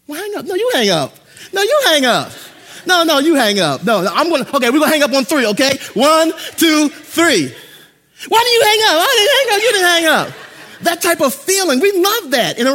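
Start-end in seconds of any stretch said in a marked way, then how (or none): 0.0-7.5 giggly late night call. Retold or imitated. Couple won't hang up. 8.3-10.4 much higher, louder playful squeal; giggly late night call. Retold or imitated. Couple won't hang up.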